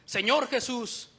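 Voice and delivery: clamor lento, pronunciado con solemnidad; llama al Señor alargando las palabras; voz alzada al clamar. Retold or imitated. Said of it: "alzar la voz y decir". (clamor con la voz un poco alzada)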